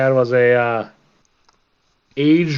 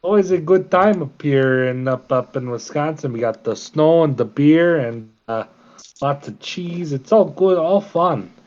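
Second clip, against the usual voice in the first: put-on Midwest accent. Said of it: "that Midwest".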